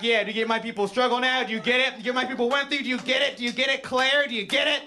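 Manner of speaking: high, loud, hammering questions; overblown, relentless haranguing; impassioned confrontation. Acted. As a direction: demand an answer with mock-righteous intensity. Confronting burrito worker in acted rant.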